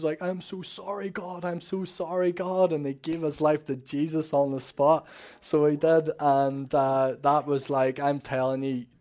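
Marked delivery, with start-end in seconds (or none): 0.2-2.7 high-pitched imitation of a tearful plea; crying apology to God. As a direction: act out a weeping penitent, voice raised in pitch. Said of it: "and he was crying".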